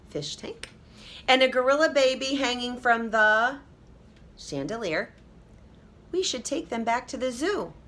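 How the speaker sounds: a hint of a listing, worried dad; lightly voiced father. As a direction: list the babies with mild alarm. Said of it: "said Kristen's father".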